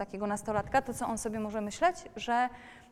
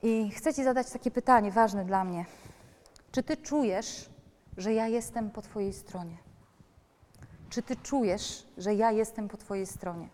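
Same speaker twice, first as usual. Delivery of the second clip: put-on a parent gently asking the teen; gentle, sincere question. Shown as a demonstration. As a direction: ask it tenderly, leaving room. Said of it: "Możecie powiedzieć do niego tak".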